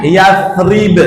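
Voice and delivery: "Yasrib" as careful Arabic Yathrib; careful Arabic pronunciation. Shown as a demonstration. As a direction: say "Yasrib" slowly as Yath-rib, landing the b. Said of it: "sa dan ba".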